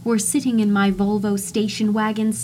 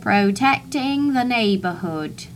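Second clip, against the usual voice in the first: put-on South African accent. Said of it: "in these South African-sounding accents".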